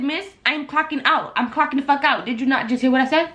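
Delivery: retold defiance. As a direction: repeat it to the manager, exasperated.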